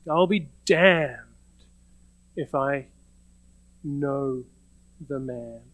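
slow acted oath, sinking away after "damned"; solemn self-curse. Peter invoking a curse upon himself, slow solemn oath. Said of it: "He invokes a a curse upon himself".

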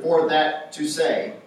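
slow, word-by-word reading of an odd phrase; awkward literal wording. Shown as a demonstration. Preacher shows the congregation an odd wording, slowly. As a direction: read it out stiffly to show how odd it sounds. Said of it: "that would be kind of odd for us".

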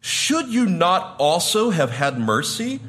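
high, loud, slow rebuke; the king condemning the wicked slave, slow and loud; wrathful king. Retold or imitated. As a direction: thunder the king's judgment down on him. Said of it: "his lord said to him".

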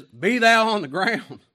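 loud, high, drawn-out order; thundering pulpit command; God's command. Acted. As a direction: boom it out as a divine decree. God commanding the snow.

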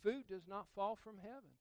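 deadpan Dwight Schrute fact; clipped deadpan announcement; mock Dwight declaring a fact; Dwight impression. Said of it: "I'll do my best Dwight impersonation".

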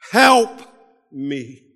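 desperate plea. Acted. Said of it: "He cries out".

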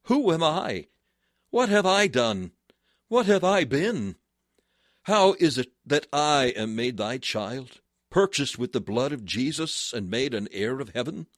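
impassioned cry. Acted. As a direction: cry it out, pleading and amazed. Impassioned confession voiced.

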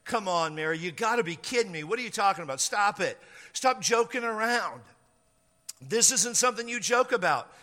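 acted incredulity, building in pitch; scolding disbelief that rises toward the end; disbelieving protest. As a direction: brush it off, then grow insistent. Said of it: "He's like".

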